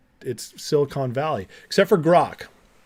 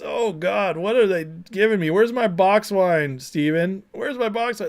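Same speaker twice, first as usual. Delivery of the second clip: mock Kamala; 5 semitones higher than usual. Mocking Kamala's reaction to beer.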